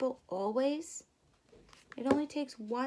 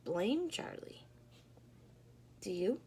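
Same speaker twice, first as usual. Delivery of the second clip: breathy whisper; whispered aside; 3 semitones lower, 6 dB quieter than usual. Real, not acted. Storyteller confiding to the children, whispering. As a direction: let them in on a secret.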